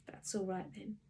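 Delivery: soft, hushed reply; quietly. A narrator's reading. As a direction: say it quietly to yourself. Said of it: "she said quietly".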